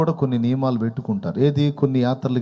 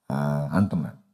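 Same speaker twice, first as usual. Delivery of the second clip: mock patience; 5 semitones lower, 6 dB quieter than usual. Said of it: "దీర్ఘశాంతంగా ముఖం పెట్టి".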